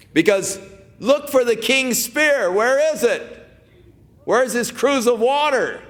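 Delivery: calling out. Retold or imitated. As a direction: shout it out as proof to the camp. David calling taunts across hills.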